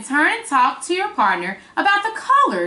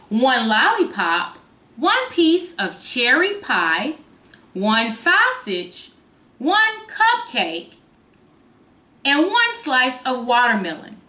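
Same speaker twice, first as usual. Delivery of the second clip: slow, lilting storybook reading; reading to a toddler; slower than usual. Acted. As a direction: read it to little kids. Resumes reading the book.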